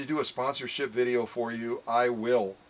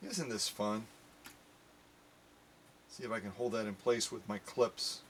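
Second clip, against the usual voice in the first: hushed awe; 3 semitones lower, 8 dB quieter than usual. Real, not acted. Quiet awe.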